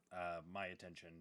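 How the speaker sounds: talking through hiccups; words broken by hiccups. Real, not acted. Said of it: "I have the hiccups right now".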